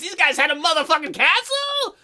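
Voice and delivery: high-pitched astonished question; mild acted yell of surprise; surprised yell. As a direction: blurt it out high in disbelief. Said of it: "couldn't help but yell in surprise".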